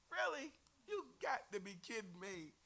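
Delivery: can't believe what you just read; incredulous. Real, not acted. Teacher to class, disbelieving the Pharisees.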